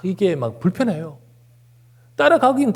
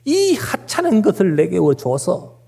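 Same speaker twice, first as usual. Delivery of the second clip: slow, higher-pitched grumble; resentful complaint; 5 semitones higher, slower than usual. Acted. Preacher voicing Israelites scorning the manna, complaining. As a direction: mildly mimic a grievance, dragging the words. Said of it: "그러면서 막 원망하고".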